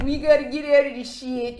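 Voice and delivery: a touch of bored hero monotone; deadpan Ethan. Retold or imitated. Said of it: "in his normal deadpan ass way".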